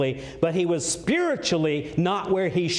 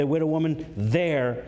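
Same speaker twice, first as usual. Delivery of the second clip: "there" held and weighted; emphatic, lingering "there"; stress on THERE. Shown as a demonstration. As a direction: lean on "there", then pause. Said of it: "put my emphasis on it here".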